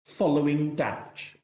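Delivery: "following" leaned on, "damage" let drop; emphasize "following", then let "damage" fall away; stress on FOLLOWING. Real, not acted. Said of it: "you'll recall the emphasis I placed on following".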